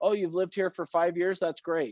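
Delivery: flat, monotone, hollow, unenthusiastic tone. Showing how a repeat-and-affirm reply can sound: flat, unenthusiastic. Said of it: "Does it sound like I thought it was great when I say it that way? No".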